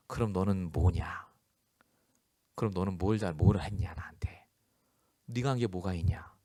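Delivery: inner voice of God. Retold or imitated. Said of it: "마음속에 이제 들리대요".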